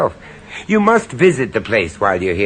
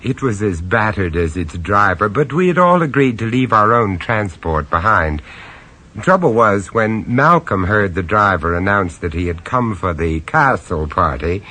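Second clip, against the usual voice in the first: low-key, wry first-person narration; lightly amused storyteller; story narration; 3 semitones lower than usual. A narrator's reading. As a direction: confide it to the listener.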